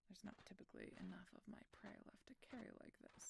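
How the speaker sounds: quick, very soft aside; quiet aside. Acted. Wry aside about his prey.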